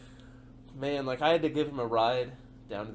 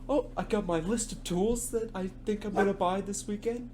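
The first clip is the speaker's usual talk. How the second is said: higher-pitched, imitated eagerness; excited newcomer; 6 semitones higher, 3 dB louder than usual. Coworker imitating a new hire keen to buy tools, excited. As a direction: mimic an eager kid's excitement. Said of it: "he's all excited".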